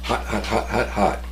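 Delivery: talking around a hot bite; blowing on a hot mouthful; mouth full of hot food. Real, not acted. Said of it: "Ooh, hot".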